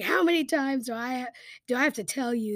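acted royal exasperation; exasperated king. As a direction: scold him like you've said it repeatedly. Exasperated king scolds the prophet.

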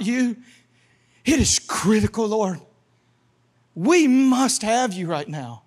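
earnest plea with weighty pauses between phrases; desperate inquiring prayer. Acted. Preacher shows how to inquire of the Lord, urgent and earnest. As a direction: plead with God as if it is critical. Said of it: "This is what it sounds like when you inquire of the Lord".

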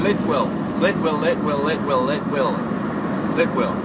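repeated "Lit will" in an even rhythm; chanting drill; five times fast. Shown as a demonstration. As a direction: loop "Lit will" like a tongue-twister. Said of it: "Five times fast".

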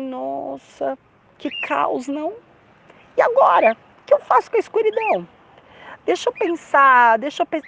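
hammed-up fretting in a high pitch; mock dismay. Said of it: "Ou ele falou assim". (aflição fingida, voz aguda)

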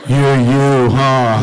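laughing disbelief. Retold or imitated. Retold recording studio exchange.

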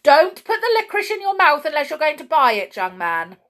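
loud, high, rapid telling-off; shouted warning. A narrator's reading. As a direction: shout over at loitering boys. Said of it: "shouted over at some boys".

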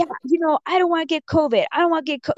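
high, quick mock complaint; imitated yelling. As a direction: mimic his repeated whining rant. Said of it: "he just kept yelling".

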